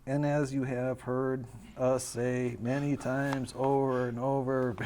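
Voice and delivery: unintentionally mournful script read; sad-sounding. Real, not acted. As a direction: recite it wearily and a touch sadly. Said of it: "You sound so sad".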